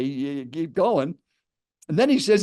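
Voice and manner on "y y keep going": slow, stammered retold reply; mildly cowed stammer; almost intimidated. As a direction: act out hesitantly giving in. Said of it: "I was almost intimidated".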